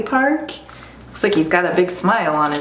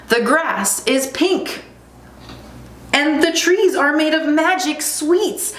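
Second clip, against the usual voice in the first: lion cub; 9 semitones higher than usual. Acted. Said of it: "replied the cub".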